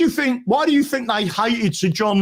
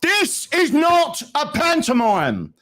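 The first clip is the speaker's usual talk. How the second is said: slow, firm mock rebuke of a rowdy gallery, a bit higher; retold judge's shout; 5 semitones higher, slower than usual. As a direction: judge scolding the gallery, mildly raised and slow. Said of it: "he shouted at the gallery".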